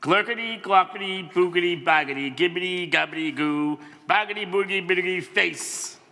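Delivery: a bouncy run of nonsense noises; silly sounds. Acted. Reader making the book's silly sounds for the kids, playful gibberish. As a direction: rattle off the gibberish like a tongue-twister. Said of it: "make silly sounds like".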